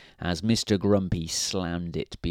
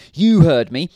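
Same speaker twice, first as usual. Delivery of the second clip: a loud, higher snap; snapped; 7 semitones higher, 10 dB louder than usual. A narrator's reading. Mister Grumpy snapping at Mister Happy, loud snap. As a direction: bite the words off at him. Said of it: "snapped Mister Grumpy".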